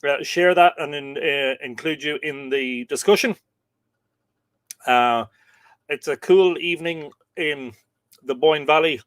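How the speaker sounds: talking around a mint; sucking a mint. Real, not acted. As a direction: mint in the mouth. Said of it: "Sorry, I'm sucking on a mint".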